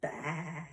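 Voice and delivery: drawn-out goat baa; goat bleat. Acted. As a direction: imitate a goat in one long bleat. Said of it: "and a goat says".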